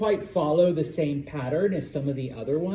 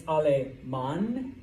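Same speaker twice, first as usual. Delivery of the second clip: "Aleman" drawn out, landing on the final "man"; teacher's slow demo of "Aleman", final syllable stressed; stress on last syllable; much slower than usual. Shown as a demonstration. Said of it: "the stress is on the second to last syllable".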